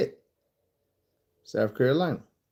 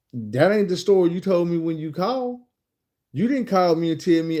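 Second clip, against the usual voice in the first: pitched up, calling out a changed story; indignant challenge; 6 semitones higher than usual. Retold or imitated. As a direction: confront her with the lie, higher voice. Confronting her over changed story.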